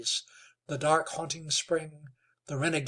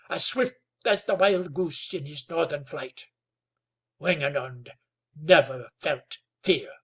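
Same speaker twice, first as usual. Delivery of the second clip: sonorous chief; 4 dB louder than usual. Acted. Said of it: "chieftain's sonorous reply".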